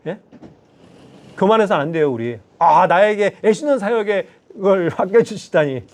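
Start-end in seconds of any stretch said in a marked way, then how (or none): 2.6-5.8 smug. Retold or imitated. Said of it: "우쭐댔겠죠".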